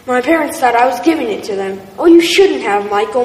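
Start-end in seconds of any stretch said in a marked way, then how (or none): 2.0-3.2 delighted, louder exclamation; a touched mother thanking her son; happy surprise; mother exclaiming. Acted. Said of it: "my mother exclaimed".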